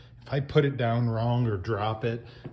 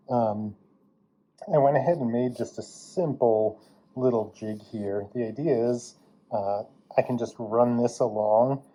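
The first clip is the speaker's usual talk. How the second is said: N95 respirator. Real, not acted. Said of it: "I've still got my, uh, respirator on".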